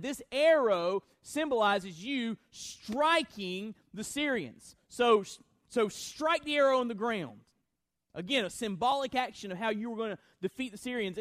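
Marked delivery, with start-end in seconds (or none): 0.0-7.4 commanding. Acted. Preacher voicing God's command.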